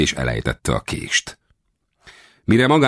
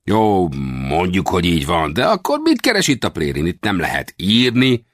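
sceptical little westerner; 4 semitones higher than usual. Acted.

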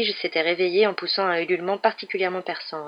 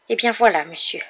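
high, louder elf voice, solemn opening; solemn small creature, pitched up; grave little elf; 4 semitones higher, 6 dB louder than usual. A narrator's reading. Elf gravely starting his explanation, solemn high voice. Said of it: "répondit l'elfe avec gravité".

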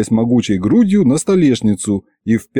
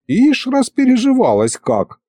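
creaky mutter; 13 semitones higher than usual. A narrator's reading. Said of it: "тихо проскрипел Михалыч".

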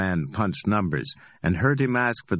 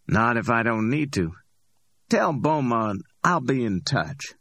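higher, amused street hustler voice; cocky Ordell; 5 semitones higher than usual. Acted. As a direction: play Ordell, high and pleased with himself. Ordell speaks.

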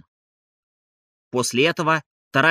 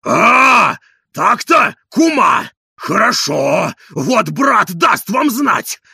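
loud, higher threatening yell; shouting; 6 semitones higher, 7 dB louder, much slower than usual. A narrator's reading. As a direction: threaten while storming out. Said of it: "кричал он".

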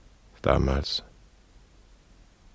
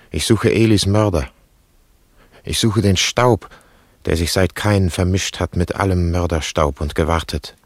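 rising anguish; 2 semitones higher than usual. Acted. Grandfather's search rising in anguish.

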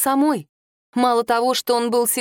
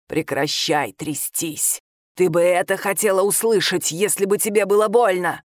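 cold scolding creature voice; 3 semitones lower than usual. Acted. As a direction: hiss it down low from under the bed. Adalla scolds from under bed.

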